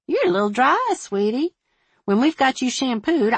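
high-pitched, friendly fussing; fussing hairdresser. A narrator's reading. Hairdresser to client in the shampoo chair, fussing. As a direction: coo over the client's hair.

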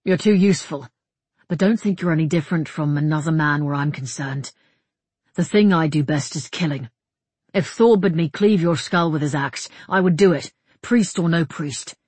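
emphatic, mildly threatening soldier voice; lightly voiced hard-edged killer; blunt warrior. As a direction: warn the priest with firm force.

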